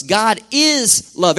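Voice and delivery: slow, weighty declaration; slow proclamation. Acted. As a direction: lean on each word of the truth.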